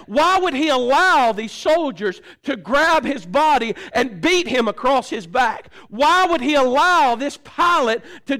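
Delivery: forceful, rhythmic pulpit preaching; preaching at full force. Real, not acted. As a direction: drive each question home to the congregation.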